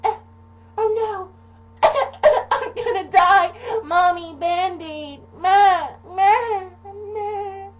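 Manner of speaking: put-on hugely high, loud wailing child voice; melodramatic crying kid. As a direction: wail for mommy like it's fatal. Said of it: "I'm talking like".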